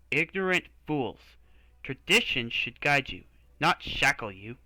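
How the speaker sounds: loud, scornful outburst at fools; angry outburst. Acted. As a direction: vent at them in disgust. Knight's angry outburst, later apologized.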